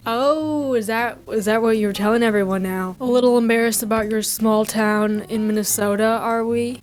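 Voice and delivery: teasing Yooper lilt; a hint of Yooper, needling; Yooper accent. Couple teases Marie about small town, light Yooper accent. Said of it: "I'm talking in a Uper accent".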